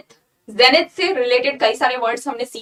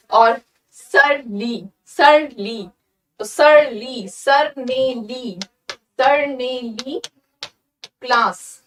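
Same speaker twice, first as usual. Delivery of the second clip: slow mnemonic; much slower than usual. Shown as a demonstration. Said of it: "सर से सर और ली से ली".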